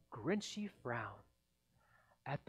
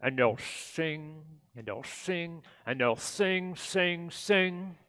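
louder, mocking repetition; 5 dB louder than usual. The Grinch mocking the Whos' singing, sneering. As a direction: sneer at each sing.

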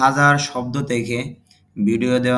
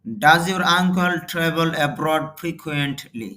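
slow model reading; much slower than usual. Shown as a demonstration. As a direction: dictate it word by word for learners. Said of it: "teacher models English sentence slowly". (ধীরে ধীরে জোরে পড়া)

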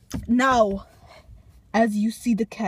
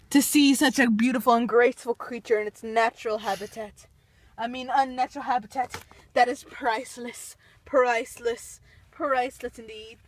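nature documentary. Pretend. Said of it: "documentary of the wild Walmart cat".

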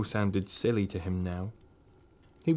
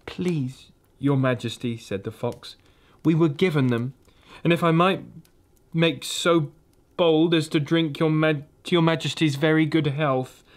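higher, nervous polite fox voice; timid old fox; 5 semitones higher than usual. Acted. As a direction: plead humbly with the queen. Fox pleads with the queen.

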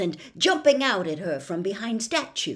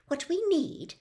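brisk; 10 semitones higher than usual. A narrator's reading. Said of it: "said Hermione briskly".

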